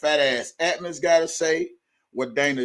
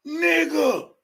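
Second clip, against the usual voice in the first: outraged shout; 8 semitones higher than usual. Real, not acted. Outraged exclamation.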